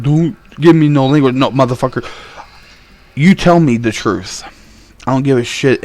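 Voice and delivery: moderately heated, retold phone rant; firm retold anger, partly restrained; retold pissed-off demand. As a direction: act out laying down the law, punching key words. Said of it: "I was straight pissed".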